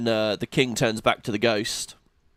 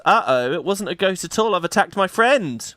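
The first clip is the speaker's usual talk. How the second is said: mock horrified realization; 6 semitones higher than usual. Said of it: "he realizes".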